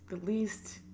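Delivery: a heavy sigh, then breathes out the least; emotional sigh. Real, not acted. Apologising to viewers, a sigh before going on. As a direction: sigh out the words, overwhelmed. Sighs as she gets emotional.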